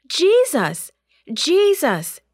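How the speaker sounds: high, urgent cry of alarm; shouted call. A narrator's reading. Disciple shouting to wake Jesus in the storm, urgent shout. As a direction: call out loudly for help, pitched high. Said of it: "he shouted".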